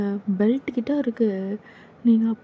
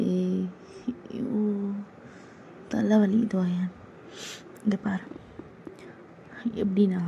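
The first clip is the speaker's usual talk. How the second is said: lower, exasperated; dismissive senior; 3 semitones lower, 3 dB quieter than usual. Acted. Senior brushing off the junior's worries, low and cold. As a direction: brush off her fears coldly.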